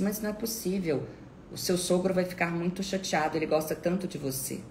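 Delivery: fast, high guilt-tripping; pleading insistence. Retold or imitated. Acts out relative insisting she come.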